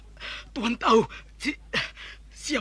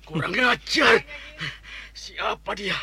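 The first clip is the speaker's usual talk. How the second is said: angry; 2 semitones higher than usual. Acted. Angry curse after attack.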